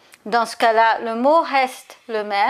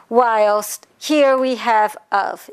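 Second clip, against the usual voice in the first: slow, leaning on the word "of"; single out "of" with a slow, deliberate stress; slower than usual. Shown as a demonstration. Teacher pointing students to the preposition, stressing "of". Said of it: "note the choice of the preposition".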